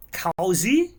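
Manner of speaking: COZY as "KOW-zee", rising in disbelief; disputed pronunciation. Real, not acted. Streamer questioning the chat's correction, disputed pronunciation. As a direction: loudly query COZY with an OW first vowel. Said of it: "It's not cozy".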